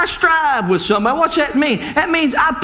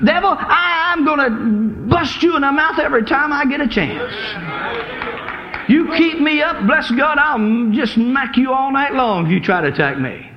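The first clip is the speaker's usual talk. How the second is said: defiant rebuke. Shown as a demonstration. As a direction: threaten the devil, fired up. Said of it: "get up and say".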